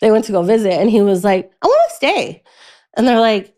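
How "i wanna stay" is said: put-on high, childish plea; little kid voice. Imitating her little brother begging his parents to stay. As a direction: mimic a small boy begging to stay.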